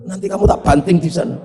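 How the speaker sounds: quick threat broken by a laugh. Retold or imitated. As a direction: rush the threat through a chuckle. Villager threatens, teller laughs.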